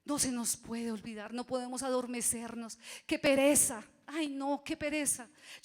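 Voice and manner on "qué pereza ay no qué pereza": loud, high mock complaint; mock whine. Preacher mocking lazy believers, loud and high. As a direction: ham up a lazy grumble.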